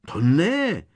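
high, loud panicked squeak; terrified high-pitched protest; frightened squeal. A narrator's reading. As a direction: squeal it out in alarm. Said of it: "vypískla vyděšeně Hermiona".

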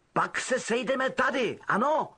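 a lightly voiced boy checking the plan; quick arrangement before leaving; Harry's voice.

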